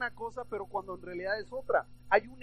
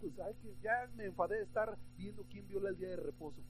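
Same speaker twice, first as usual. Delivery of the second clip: bored mock grumble; 9 dB quieter than usual. Bored Pharisees deciding what to do, soft mock grumble. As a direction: grumble softly, as an imitated idler.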